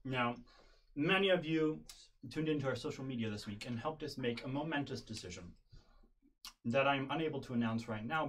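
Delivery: talking through a mouthful; words round a sticky bite of sandwich; mouth full of peanut butter. Real, not acted. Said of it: "because I have my mouth full of peanut butter sandwich".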